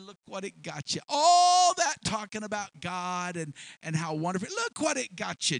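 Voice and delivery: rising, mocking voice of doubt; taunting tempter. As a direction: needle him with scorn.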